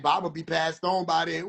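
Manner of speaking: low, soft mocking quote; mocking mumble. Mocking the crowd's excuse, low and soft. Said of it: "then y'all like".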